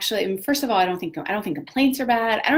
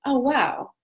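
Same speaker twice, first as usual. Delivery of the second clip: a lightly higher, curious oh wow; mock curious wonder; 3 semitones higher than usual. Meeting your own complaint, lightly curious wonder. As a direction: greet the complaint with interest. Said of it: "is go like".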